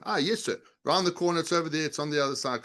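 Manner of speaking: friendly helpful. Shown as a demonstration. Salesperson showing a visitor the way, friendly and eager. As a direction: sound glad to help. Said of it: "'cause that's a lot friendlier than".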